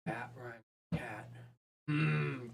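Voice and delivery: quiet, musing songwriter voice; mock pondering. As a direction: mumble like you're stuck on a rhyme. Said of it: "sitting here thinking really hard".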